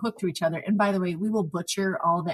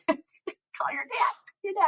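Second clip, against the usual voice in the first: mock teasing; 11 semitones higher, much slower than usual. Mocking aside.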